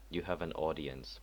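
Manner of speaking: lightly husky, guard announcing; a touch of husk on the guard's words. Shown as a demonstration. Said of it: "I'll do a more husky voice".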